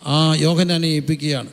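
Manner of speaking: preacher pressing the mothers' sorrow on his flock, impassioned; impassioned preaching. Acted. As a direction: preach it with rising fervour to the congregation. Preaching at full force.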